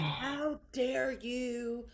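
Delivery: high, slow, huffy mock outrage; mocking an offended man. Imitating a rude man flipping out on her, high and huffy. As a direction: parody his indignant rant. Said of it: "He was like".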